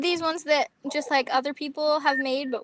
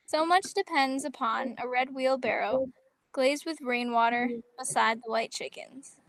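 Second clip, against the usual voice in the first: understated, softly spoken poem recital; poem reading; 4 dB quieter than usual. Acted. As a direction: read it simply, a little quietly, line by line.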